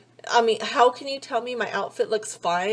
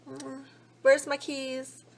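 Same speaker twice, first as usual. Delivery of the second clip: mock innocent murmur; 4 semitones higher, 5 dB quieter, slower than usual. Retold digging through purse.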